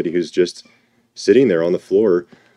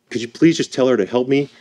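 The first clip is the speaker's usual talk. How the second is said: put-on higher-pitched, pleading older-sister voice; Martha; 6 semitones higher than usual. Martha begging Jesus for help with her sister, higher mock plea. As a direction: imitate an exasperated sister asking for help. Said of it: "I can hear it in Martha's voice".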